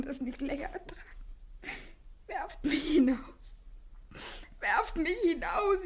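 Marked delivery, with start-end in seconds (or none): 2.3-3.6 whispered plea. Acted. First plea whispered, slow. 4.6-5.8 voiced desperate plea. Second plea voiced, rising.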